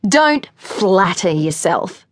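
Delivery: slow, scornful put-down; mocking. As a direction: drag it out with contempt. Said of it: "she mocked".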